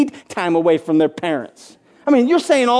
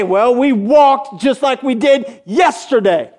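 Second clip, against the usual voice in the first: slow, tired report of the same walk; weary husband reply; slower than usual. Retold or imitated. Husband telling wife about the march, slow and weary. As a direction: drag it out like a bored soldier home from work.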